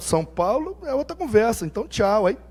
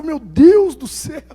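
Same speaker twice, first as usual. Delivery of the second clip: mock dismay; 5 semitones higher, 5 dB louder, slower than usual. Pastor's reaction.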